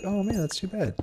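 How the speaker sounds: high, casual aww-too-bad voice; high-pitched girl impression; imitated girl's sympathy. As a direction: mimic her offhand regret way up high.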